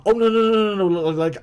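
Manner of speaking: high, loud oh no no no of realization; sudden realization. Retold or imitated. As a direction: catch yourself in a blunder. Cedric suddenly realizes his mistake.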